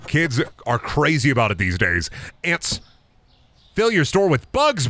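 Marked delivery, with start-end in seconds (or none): 2.4-4.9 pestering customer voice. Acted. Acted customer pestering shopkeeper.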